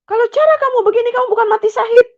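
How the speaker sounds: high, loud and fast tirade; angry father yelling. Retold or imitated. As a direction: rant at her, fast and furious. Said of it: "kata bapak saya gitu". (bentakan cepat penuh amarah)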